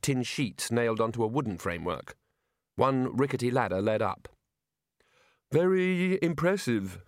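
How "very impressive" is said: sighed. Acted. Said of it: "sighed Rincewind".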